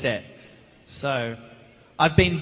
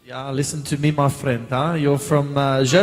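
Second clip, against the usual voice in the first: lightly put-on South African accent. Actor guessing where the questioner is from, mock South African accent.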